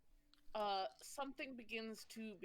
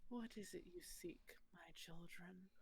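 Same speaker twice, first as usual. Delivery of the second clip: deep voice; 2 semitones lower, 8 dB quieter than usual. Acted. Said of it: "a deep voice".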